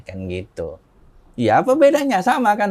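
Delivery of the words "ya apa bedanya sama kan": high, loud retold comeback; mock exasperated retort. Convert arguing with brother over Jesus and Isa, mock exasperated. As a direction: push back impatiently, acting out the argument. Acted argument over religion.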